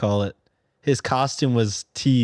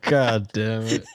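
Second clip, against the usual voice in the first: slow groan cracking into laughter; defeated laugh at a bad pun; 3 semitones lower, slower than usual. Real, not acted.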